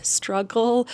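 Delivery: "struggle" drawn out slightly for emphasis; slow, deliberate "struggle"; stress on struggle. Real, not acted. Vlogger repeating the key word, deliberate emphasis on "struggle". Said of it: "I really emphasize that word".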